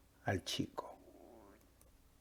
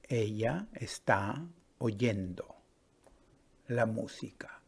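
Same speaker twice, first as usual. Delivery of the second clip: slow repeat; 3 dB quieter than usual. Shown as a demonstration. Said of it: "¿Sí?".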